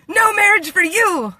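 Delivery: high, loud mock proclamation; mock decree. Joking decree to viewers against marriage, high and loud. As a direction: bellow it like a joking royal decree.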